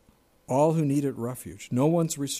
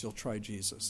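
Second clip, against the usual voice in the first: incredulous echo; 5 semitones lower, 9 dB quieter than usual. Real, not acted. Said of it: "I don't even know what that means".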